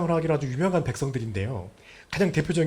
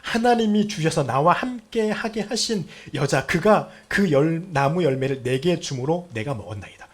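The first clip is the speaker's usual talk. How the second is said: Adam's excuse; 3 semitones higher, 5 dB louder than usual. Acted. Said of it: "이렇게 말합니다".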